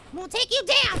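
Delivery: threat in full voice; firmer threat. Real, not acted. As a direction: declare it openly to the opponent. Repeats threat, fuller voice.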